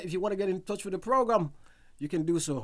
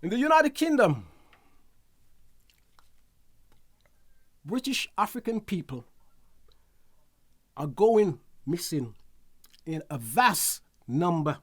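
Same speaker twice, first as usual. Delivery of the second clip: news read. Acted. Reads out a news item.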